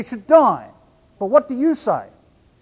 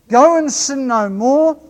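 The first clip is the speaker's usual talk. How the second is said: louder, slowed-down command; firm command; 4 semitones higher, 5 dB louder, slower than usual. Acted. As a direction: hand down the command firmly.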